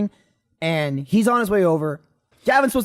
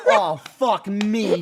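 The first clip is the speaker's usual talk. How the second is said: laughing disbelief; 2 semitones higher, much slower than usual. Retold or imitated. Retold reaction, laughing.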